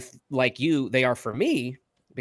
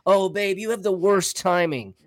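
imitating fiance; 4 semitones higher, 4 dB louder than usual. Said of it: "That's all I ever hear".

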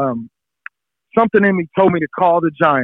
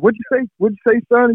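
retold scout shout; 9 semitones higher than usual. Giants scout shouting on phone.

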